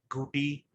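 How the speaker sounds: "Gooty" with a long oo; possible reading. Shown as a demonstration. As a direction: say "Gooty" as GOO-tee. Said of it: "might pronounce it as".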